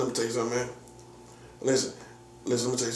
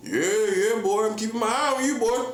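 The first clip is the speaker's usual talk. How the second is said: put-on high-pitched teasing old-timer voice; hammed-up old person keeping watch; mock old person; 7 semitones higher than usual. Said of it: "old people eat rice and gravy".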